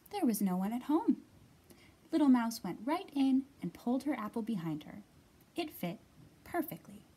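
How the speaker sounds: put-on lively read-aloud for young children; clear, projected picture-book reading; story narration. A narrator's reading.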